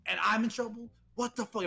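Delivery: high-pitched retold disbelief; incredulous protest. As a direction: act out a student outraged at being blamed. Kelvin's protest, acted out.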